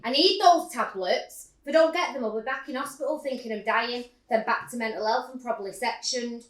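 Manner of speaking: mock desperate yell at the pharmacist; retold shouting. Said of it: "I was shouting".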